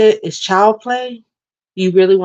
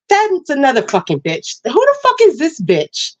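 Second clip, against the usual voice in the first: raised, heated rant at a hater; angry rant; 3 semitones higher than usual. Real, not acted. Ranting at commenters on her live.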